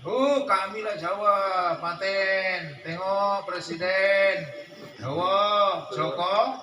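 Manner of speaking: slow, puffed-up bragging voice, lightly put on; mock boastful Javanese. Preacher mocks a Javanese bragging about the president, slow smug brag. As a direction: swagger through it like a proud Javanese.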